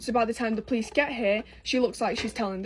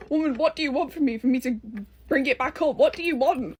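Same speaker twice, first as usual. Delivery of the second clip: exasperated; 3 semitones higher than usual. Retold or imitated. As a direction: throw your hands up at her in disbelief. Retold exasperated reply to mum.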